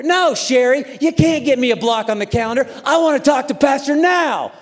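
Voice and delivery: worked-up, indignant outburst; retold yelling. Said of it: "Like, I was yelling".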